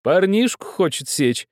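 high and loud, fighting back a laugh; host presenting the old man's request to guests, suppressing laughter; stifled laughter. A narrator's reading. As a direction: hold in the laughter while speaking. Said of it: "делая отчаянное усилие, чтобы не расхохотаться снова".

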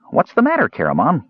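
high, piping question; high-pitched kender. A narrator's reading. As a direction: ask innocently in a high little voice.

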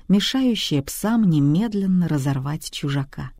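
usual speaking voice

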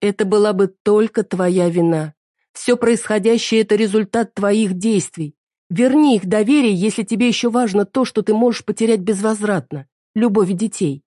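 wife coldly reproaching her husband; hurt wife. Acted. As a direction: lay the blame on him steadily.

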